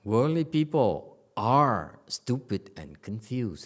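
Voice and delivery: loud, slow, emphatic pronouncement; statement of fact. Shown as a demonstration. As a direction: declare it firmly, word by word. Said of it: "it's a statement of fact".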